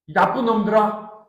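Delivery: angry Jesus. Acted. Jesus scolding Jews who believe only miracles, angrily. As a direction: rebuke them with mild acted anger. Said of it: "예수님이 지금 화내고 계신 거예요".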